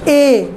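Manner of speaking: "ए" held long from the throat; vowel from the throat. Shown as a demonstration. Teacher showing pupils a throat vowel, drawn-out demonstration. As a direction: sound out "ए" as one open, sustained vowel. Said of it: "यहाँ से गले से".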